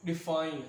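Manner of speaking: "डिफाइन" with a light डि and a stressed फाइन; "डिफाइन", easy start and weighted ending; stress on second syllable. Shown as a demonstration. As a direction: put the effort on फाइन in "डिफाइन", none on डि. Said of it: "इसमें मेरी कोई effort नहीं लग रही".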